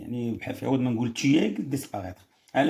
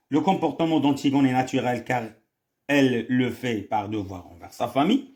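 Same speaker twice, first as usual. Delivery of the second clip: slow, drawn-out reading of the options; reading the question; much slower than usual. Shown as a demonstration. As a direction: spell out each choice slowly for the class. Reads answer slowly. (قراءة بطيئة للسؤال)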